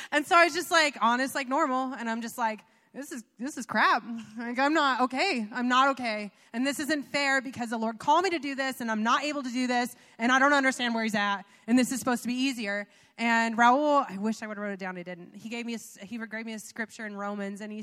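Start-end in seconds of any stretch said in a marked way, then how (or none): 2.9-12.9 louder, insistent complaint; retold frustrated venting. Retelling her venting that this isn't fair, frustrated protest. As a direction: re-enact an indignant protest.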